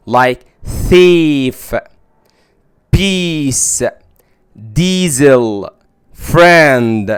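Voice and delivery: thief, peace, diesel said with a long ee; teacher demo of ie as ee; long ee sound. Shown as a demonstration. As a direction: model the ee vowel clearly. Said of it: "بنطقها كالمد بالياء".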